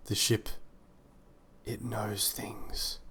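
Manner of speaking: eerie hushed whisper. Acted. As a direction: breathe it out, spooked. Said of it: "looked at Ellis and goes".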